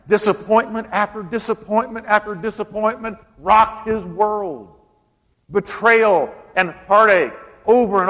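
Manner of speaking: impassioned preaching. Acted. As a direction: preach it to the congregation, punching key words. Preaches at raised pitch.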